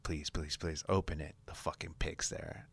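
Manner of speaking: hushed desperate begging; whispered pleading. Retold or imitated. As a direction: whisper it like a prayer. Begging whispered hope for the pick.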